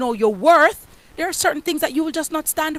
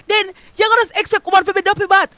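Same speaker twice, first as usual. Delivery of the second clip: scornful jab; 8 semitones higher, faster than usual. Acted. Scornful punchline.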